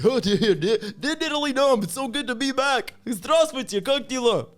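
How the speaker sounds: high, loud mock excitement; over-the-top thrilled homecoming; gushing returnee. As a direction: squeal a hammed-up delighted greeting. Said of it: "you're like".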